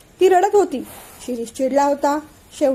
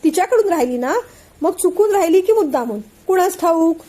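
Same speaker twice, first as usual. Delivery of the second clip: higher, insinuating questioning; pointed insinuation; 4 semitones higher than usual. Acted. Aunt suggests Anandi left the bag deliberately, higher and pointed. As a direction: cast doubt with a pointed lift.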